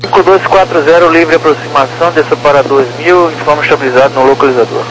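crackly radio transmission; crackly military radio. Real, not acted. Air traffic radio call.

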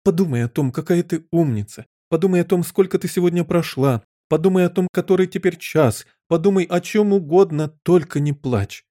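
high, insistent coaxing; desperate pleading. A narrator's reading. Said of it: "закричала королева в отчаянии". (отчаянно уговаривая, высоким голосом)

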